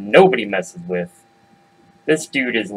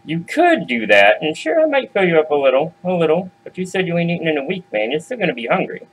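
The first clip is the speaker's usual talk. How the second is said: lightly voiced little goat, pitched up; a hint of a higher, bargaining young goat; wheedling Junior goat; 5 semitones higher than usual. Small goat bargains with the hungry troll, lightly wheedling.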